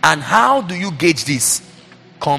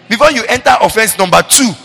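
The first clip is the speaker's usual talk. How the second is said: BEFORE hit higher and louder; emphatic; 7 semitones higher, 8 dB louder than usual. Real, not acted. Preacher to the church, hammering Before, higher and louder. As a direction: lean hard on the word Before.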